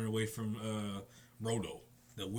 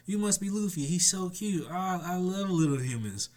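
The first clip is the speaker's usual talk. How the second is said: much higher, louder gushing voice; adoring giant girl; 6 semitones higher, 4 dB louder than usual. Retold or imitated. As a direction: coo over the cute little human. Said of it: "Gerd is just".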